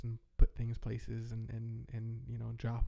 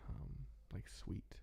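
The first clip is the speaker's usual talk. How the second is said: whispered thinking to self; whispering; 12 dB quieter, much slower than usual. Real, not acted. Thinking aloud under breath.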